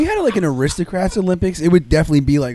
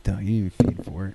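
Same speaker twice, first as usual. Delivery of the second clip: dumb mocking voice; 8 semitones lower, 5 dB quieter, faster than usual.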